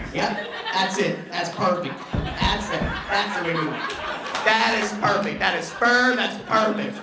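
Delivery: mildly hammed-up satisfaction that builds; mock approval. Bob voiced approving the turf.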